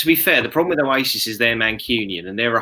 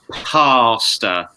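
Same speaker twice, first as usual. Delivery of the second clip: American pasta; 3 dB louder than usual. Retold or imitated. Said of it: "where he calls it".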